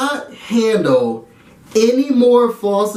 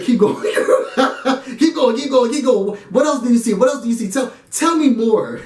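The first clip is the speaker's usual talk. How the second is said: amused urging; 4 semitones higher than usual. Real, not acted.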